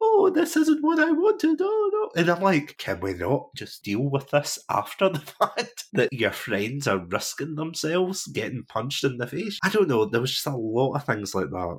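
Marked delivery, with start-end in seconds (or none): 0.0-2.2 very high, loud, sobbing, howling wailing cry. Recounting how she ran away after a fight over her: imitating someone wailing and crying. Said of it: "she would run away wailing and crying".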